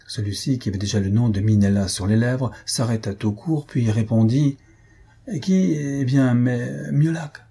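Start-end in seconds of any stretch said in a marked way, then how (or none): 5.4-7.4 high startled "who", then stalling; higher, slow, groping for an answer; caught-out hesitation. A narrator's reading. Husband covering up to his suspicious wife, hesitant improvising.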